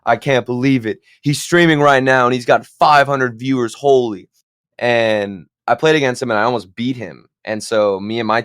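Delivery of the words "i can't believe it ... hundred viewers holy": mildly excited starstruck quote; freaking out. Retold or imitated. Player retells teammates spotting a famous streamer, mildly freaking out. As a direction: imitate awed teammates, a touch worked up. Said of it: "my teammates were freaking out".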